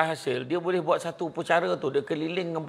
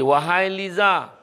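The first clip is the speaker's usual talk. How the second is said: slow calling voice; 3 semitones higher, 4 dB louder, much slower than usual. Acted. Angels calling a name.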